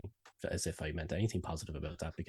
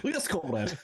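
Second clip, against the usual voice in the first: high-pitched, louder cartoon Russian; mock Russian accent; 10 semitones higher, 5 dB louder, slower than usual. Shown as a demonstration. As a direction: answer in a silly Russian accent. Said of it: "can you do a Russian accent".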